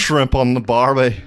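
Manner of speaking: put-on slow, lightly done Australian accent; hesitant Australian impression on request. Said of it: "Just do one sentence as an Australian guy".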